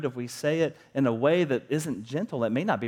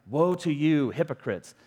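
movie Jesus rebuke; 3 dB louder than usual. Retold or imitated. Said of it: "He's always got an angry look".

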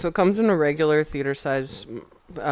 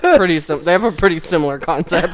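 laughing; 5 dB louder than usual. Real, not acted. Laughing at pedal.

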